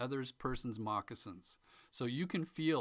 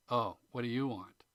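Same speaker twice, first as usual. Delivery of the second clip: louder Oh, what do you want with YOU leaned on; exasperated; 3 dB louder than usual. Shown as a demonstration. Teacher showing an annoyed reading of the question. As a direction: sound fed up with them. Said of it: "when you change the emphasis".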